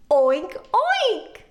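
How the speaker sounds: playful pig oinks. Shown as a demonstration. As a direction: oink like a cartoon pig. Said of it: "what the pig says".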